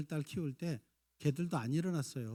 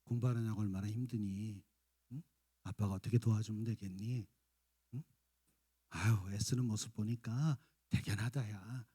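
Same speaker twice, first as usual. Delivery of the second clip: soft, lower encouraging father; gentle praise; 4 semitones lower, 3 dB quieter than usual. Retold or imitated. Father encouraging studying child, soft and gentle. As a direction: softly praise the hard-working child. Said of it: "이렇게 칭찬하면".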